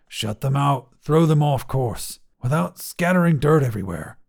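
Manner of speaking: a mildly squeaky attempt at a command; lightly strained, squeaky order; weak, squeaky. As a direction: try to command, but let it come out a little weak. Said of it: "it sounded weak, his voice squeaky".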